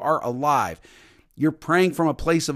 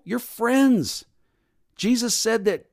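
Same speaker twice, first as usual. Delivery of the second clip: usual speaking voice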